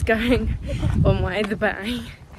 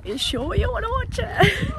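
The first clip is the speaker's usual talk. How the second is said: high teasing question; 11 semitones higher than usual. Retold or imitated. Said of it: "I had to ask her".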